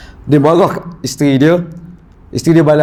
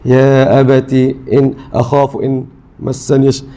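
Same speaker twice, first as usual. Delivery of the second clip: gentle plea; slower than usual. Retold or imitated. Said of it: "bahasa lembut".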